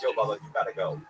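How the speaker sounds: retold warning. Armed man at the door telling him to leave, firm. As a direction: imitate a man ordering someone out. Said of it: "Like, I didn't understand it".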